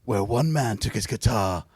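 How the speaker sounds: whispered, dramatic trailer opening; movie trailer voice. Acted. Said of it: "I've been practicing my movie trailer voice".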